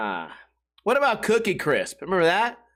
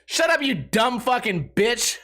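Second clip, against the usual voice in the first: mom's snap; 4 semitones higher, slower than usual. Retold or imitated. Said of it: "the mom just goes".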